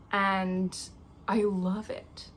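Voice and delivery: whisper. Real, not acted. Whispering to herself about the birthday candle. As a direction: hush it, savouring the scent.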